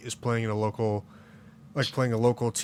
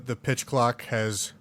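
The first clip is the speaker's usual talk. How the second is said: burping; slower than usual. Real, not acted. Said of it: "I'm burping here".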